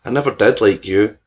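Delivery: firm, loud refusal; barked. Acted. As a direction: push it out with force. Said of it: "George barked".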